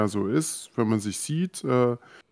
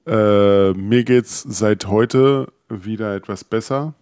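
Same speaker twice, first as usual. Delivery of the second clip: stuffy nose; slower than usual. Real, not acted. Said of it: "wie man vielleicht noch hört, Stimme angegriffen, Nase ist zu".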